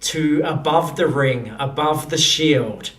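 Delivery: measured narration with dramatic pauses; game master's scene setting. Acted. Game master describing airships arriving over the wedding, suspenseful narration. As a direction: unveil it piece by piece, deliberately.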